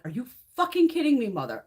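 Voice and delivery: mild mock fury at the store; exasperated outburst. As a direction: let the outrage burst out. Furious in parking lot.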